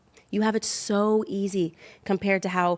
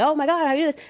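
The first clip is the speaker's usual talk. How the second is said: mock amazement; 8 semitones higher, 4 dB louder, much faster than usual. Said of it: "You're like".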